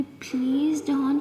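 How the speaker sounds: slow breathy plea to her partner; pleading whisper. Acted. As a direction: whisper it, begging her to calm down. Aaliya pleading softly with Amaya. (धीमी फुसफुसाती विनती)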